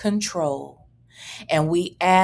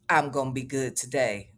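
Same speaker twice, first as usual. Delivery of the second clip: flat deadpan reread; 10 semitones lower, 5 dB quieter than usual. Retold or imitated. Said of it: "why you starting today?".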